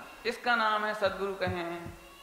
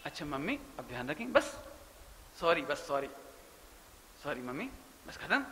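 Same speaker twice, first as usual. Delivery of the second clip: meek apology; 6 semitones lower, 6 dB quieter than usual. Retold or imitated. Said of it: "कह दे".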